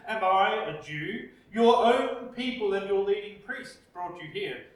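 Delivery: lightly voiced disdainful governor; mild contempt. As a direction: Pilate scoffing at the prisoner, understated contempt. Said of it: "Pilate's contempt can be heard".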